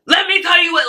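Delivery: high mock yell; retold yelling. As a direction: imitate the boss shouting down the hall. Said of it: "like, yelling".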